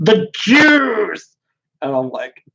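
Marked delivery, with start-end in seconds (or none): 0.0-1.4 put-on ranting maniac voice, pitched higher. Mocking a writer who keeps bringing it up: imitating E. Michael Jones ranting. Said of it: "he's like".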